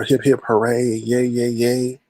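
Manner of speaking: deadpan hip-hip-hooray on one note; unenthusiastic mock cheer. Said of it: "I'm sorry, I'm not chipper".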